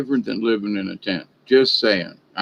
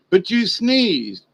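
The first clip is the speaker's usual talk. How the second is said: accuser voiced; 5 semitones higher, much slower than usual. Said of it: "somebody said".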